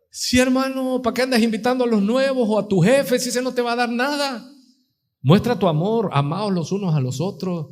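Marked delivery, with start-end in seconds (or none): 0.1-4.5 high, mildly mocking challenge; mocking reproach. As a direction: chide a brother in a raised pitch. Mocks member who invites for gain. (reproche burlón, voz aguda)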